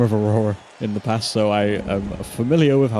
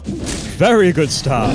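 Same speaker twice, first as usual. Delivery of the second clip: drawn-out praise; 4 semitones higher, 4 dB louder, much slower than usual. Real, not acted.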